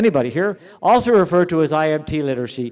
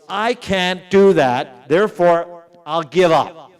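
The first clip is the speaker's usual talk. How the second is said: slow, louder, a hint of a giving-up student; mock defeatist student; 3 semitones higher, 4 dB louder, slower than usual. Lecturer to teachers, mimicking a student who quits, slowed. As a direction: drag it out like a student quitting. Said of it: "degrade yourself and say".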